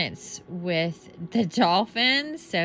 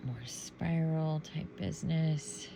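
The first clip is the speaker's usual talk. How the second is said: whispering; 5 dB quieter than usual. Real, not acted. Quiet aside while sorting cards.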